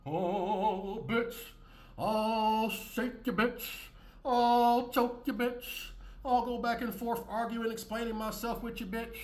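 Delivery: escalating mock screaming at the partner; mock yelling. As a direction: ham up an angry screaming fit, climbing. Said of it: "you don't gotta yell, scream".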